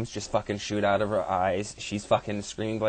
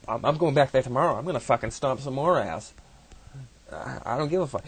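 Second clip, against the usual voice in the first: gleeful bloodlust; 5 semitones higher, 3 dB louder than usual. Acted. Sekhmet boasting of slaughter to Ra.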